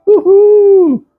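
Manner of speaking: long, very high mimicked "woo-hoo"; high-pitched female whoop. Mimicking churchwomen once the hymn ends, high-pitched whoop. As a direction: whoop way up high, imitating the women. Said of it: "que é uma voz mais aguda".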